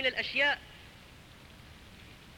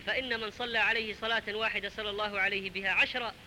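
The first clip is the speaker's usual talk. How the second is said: closing prayer; 3 semitones lower than usual. Acted. Preacher closing the sermon with a gentle prayer.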